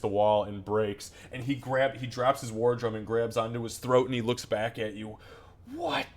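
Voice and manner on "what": high-pitched, put-on "what"; indignant reaction. Wounded Gray looks back at his shooter, indignant and high. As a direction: squeak it out as the wounded character.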